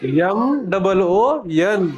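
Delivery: drawn-out letter-by-letter spelling; slow spelling. Shown as a demonstration. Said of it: "मून झालं का मॉन झालं?".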